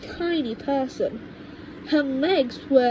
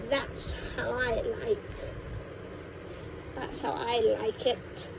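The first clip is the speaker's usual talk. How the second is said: creepy grandma; 3 dB quieter than usual. Acted. Grandma tells George about beetles in celery, soft and creepy. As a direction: savour it like a wicked secret.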